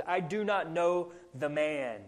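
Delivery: slow, firm denial; emphatic oath. Retold or imitated. Peter denies Jesus to the servant girl, emphatic oath. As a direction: deny it deliberately, like swearing an oath. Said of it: "He denies it with an oath".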